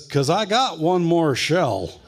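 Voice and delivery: slow, loud, sly punchline; deadpan threat. Retold or imitated. Brother jokes to hurt Jerry, slow and sly. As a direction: drop the threat slowly with a grin. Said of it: "my brother says".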